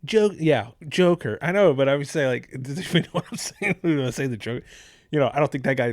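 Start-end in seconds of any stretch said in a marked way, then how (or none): none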